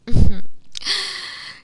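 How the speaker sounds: short closed-mouth villainous chuckle; gloating chuckle. Acted. Witch laughing at her trapped inquisitor, gloating. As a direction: chuckle smugly, then draw breath.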